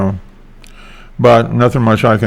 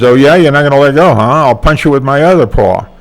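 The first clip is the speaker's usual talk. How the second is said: fast, louder and higher threat; taunting the stuck doll, picking a fight; mock-angry Brer Fox; 4 semitones higher, 3 dB louder than usual. Brer Fox threatens the Tar Baby, fast mock-angry. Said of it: "And he says".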